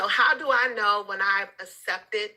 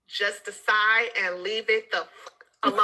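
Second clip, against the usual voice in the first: laughing quote. Retold or imitated. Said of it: "in the words of Toya".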